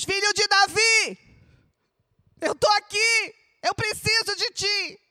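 a loud, high desperate shout; shouted plea. Retold or imitated. Preacher voicing the blind man crying to Jesus, shouting. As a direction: cry it out to the four winds. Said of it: "Ele gritou aos quatro ventos".

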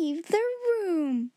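cold order. A narrator's reading. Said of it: "ordered Miss Minchin".

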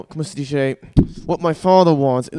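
lightly voiced calm mob boss; Michael Corleone. Comic showing the calm guy he is not, lightly acted cool. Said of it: "Michael Corleone. I'm not a calm, cool, collected guy".

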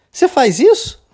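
high-pitched mocking question, swooping up at the end; teasing. Friend making fun of her pal, teasing high question. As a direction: poke fun with an exaggerated rising question. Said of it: "zoando com a cara dela".

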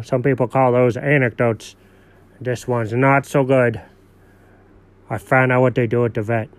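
lightly voiced dog telling kids a tale; dog narrator voice. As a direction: tell it like a goofy dog spinning a yarn. Puppet dog narrates his anecdote.

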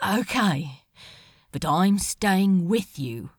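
low, even, steady decision; calm and flat. Acted. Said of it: "voice as calm and flat as the ocean".

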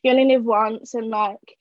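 lightly voiced British reality contestant; a hint of British accent, chatty; mock British accent. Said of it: "do their intro in British accents".

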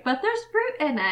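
hammed-up bad British accent, fruit stressed; terrible English accent. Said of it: "that was a terrible accent".

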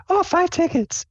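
suddenly delighted high squeak; Sable. Acted. Player's character spotting her prize tickets, delighted high squeal. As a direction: squeal it high, all anger forgotten. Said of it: "not mad anymore".

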